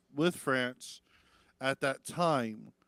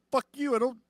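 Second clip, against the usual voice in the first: higher, fast sassy snap then grudging offer; sassy retort; 5 semitones higher, 5 dB louder than usual. Retold or imitated. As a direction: brush them off, then toss a concession. Retold own sassy reply.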